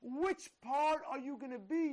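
challenge. Real, not acted. Challenging the congregation.

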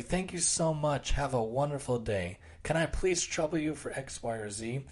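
extra polite. Shown as a demonstration. Speaker to barista, showing his extra polite wording. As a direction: gently ask as if troubling them. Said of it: "I purposely say it like that".

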